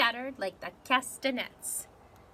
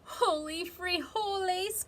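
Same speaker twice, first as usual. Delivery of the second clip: higher, startled exclamation; excited cry; 7 semitones higher than usual. Acted. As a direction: blurt it out in surprise. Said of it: "cried Scapito".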